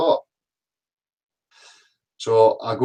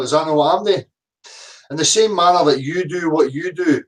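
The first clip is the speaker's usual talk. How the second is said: ordinary delivery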